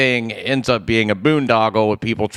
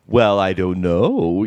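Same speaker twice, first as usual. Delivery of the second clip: put-on slow old-school New York accent; 3 semitones lower, slower than usual. Shown as a demonstration. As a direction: play it like an older New Yorker. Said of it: "there's other New York accents".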